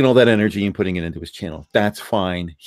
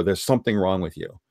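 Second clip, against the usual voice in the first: ordinary talk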